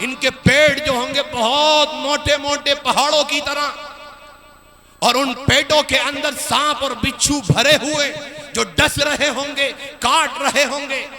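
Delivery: forceful sermon narration, sustained; preaching. Acted. Preacher warning of Judgement Day, preaching. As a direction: proclaim it to the congregation.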